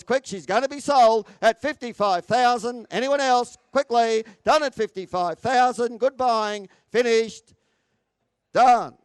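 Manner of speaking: emphatic last call, ringing out; auctioneer's closing call. Real, not acted. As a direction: warn the room, then knock it down firmly.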